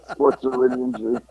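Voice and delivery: laughing repeat. Real, not acted. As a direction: chuckle through it.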